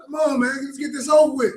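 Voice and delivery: high, loud, rushing impatient shout; a young brother itching to get it over with; fired-up impatient brother. Acted. Youngest brother impatient to face the king, shouting high and eager. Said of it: "he was so fired up".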